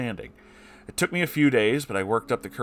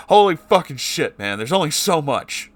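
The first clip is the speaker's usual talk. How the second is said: real outburst, louder and higher; getting mad; 6 semitones higher, 7 dB louder than usual. Real, not acted. Reader outraged at the abusive parents, real angry outburst. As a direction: let the anger burst out. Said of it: "I'm getting mad".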